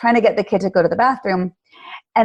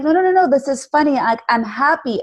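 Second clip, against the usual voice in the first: quick, higher no no no no; father brushing off his son's worry, quick and higher; reassuring dad; 5 semitones higher than usual. Retold or imitated. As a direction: hurry to reassure the boy. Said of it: "And the dad's like".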